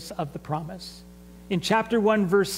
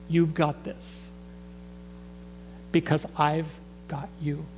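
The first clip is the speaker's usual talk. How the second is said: reassuring; 3 semitones lower, 4 dB quieter than usual. Retold or imitated. God gently reassures Joshua he is not alone. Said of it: "God says to Joshua".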